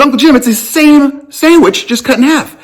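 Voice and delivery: high, laughing through the words; amused disbelief, giggling high. Retold or imitated. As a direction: laugh while pointing out the obvious. I laughed right to his face.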